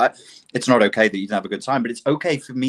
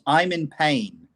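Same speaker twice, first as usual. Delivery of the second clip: mock dialogue; 5 semitones higher, slower than usual. Parodying dismissive exchange.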